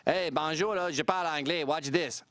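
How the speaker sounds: French Canadian putting on a casual greeting; mock French speaker switching between French and English; French accent. French speaker showing off their English, French accent. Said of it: "So a French person could say".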